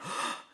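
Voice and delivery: sharp, soft intake of breath; sudden mock-frightened gasp; jump-scare gasp. Shown as a demonstration. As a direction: gasp as if startled, for a demo. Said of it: "like, a jump scare".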